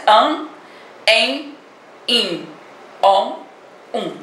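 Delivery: "An, en, in, on, um" each said apart, nasal vowels drawn out; demonstração de vogais nasais; nasal vowel demo. Shown as a demonstration. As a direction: model each nasal sound for pupils. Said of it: "ó, olha a pronúncia".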